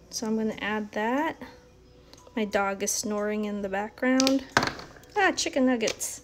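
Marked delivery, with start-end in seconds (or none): 5.2-6.2 playful stand-in swear word; mock curse. Real, not acted. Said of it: "I always say chicken nuggets".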